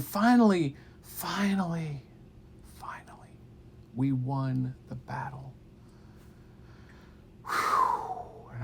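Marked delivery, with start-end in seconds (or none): 0.0-2.0 building finale. Shown as a demonstration. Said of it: "finally x3 fading". 2.7-3.3 faint whispered finally. Shown as a demonstration. Teller fading the word finally to a whisper. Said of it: "finally x3 fading". 7.5-8.5 high whistled sigh of relief; relieved whew. Acted. Relief after battle.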